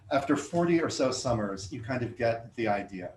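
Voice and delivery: measured, deliberate poem recital; poetry reading. Acted. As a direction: read each line like it matters. Starts reading next poem.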